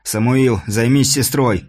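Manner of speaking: growled order. Acted. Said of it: "рыкнул на растерянного подростка Борис".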